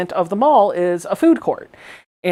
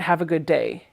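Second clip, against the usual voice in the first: imitated thick Latina accent, softer and lower; lightly put-on Latino accent; 4 semitones lower, 8 dB quieter than usual. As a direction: mimic a cashier's Latino-accented farewell. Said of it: "she replies with a thick".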